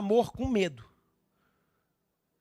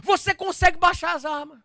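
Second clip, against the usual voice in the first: loud, rising to high shouted appeal; full-force preaching; 11 semitones higher, 12 dB louder than usual. Real, not acted. Preacher urging the listener to hand over the sword, fervent shout. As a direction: urge them on at full voice.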